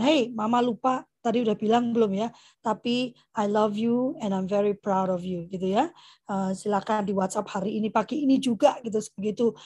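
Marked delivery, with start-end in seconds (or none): 0.0-5.5 put-on tender message to child. (pesan sayang yang pelan)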